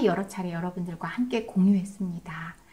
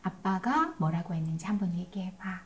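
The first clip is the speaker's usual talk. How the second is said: "아빠가 뭐라고 했는지 한번 얘기해봐" asked softly and unhurried; a softer voice, no pressure in it; calm gentle request; 5 dB quieter than usual. Shown as a demonstration. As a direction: invite the child to repeat it back, gently. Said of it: "그런 다음에 이건 필요해요".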